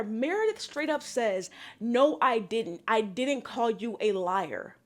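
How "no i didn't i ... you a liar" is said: slow, measured mock denial; deadpan denial. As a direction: draw the denial out evenly, imitating her. Mimics Meredith's denial.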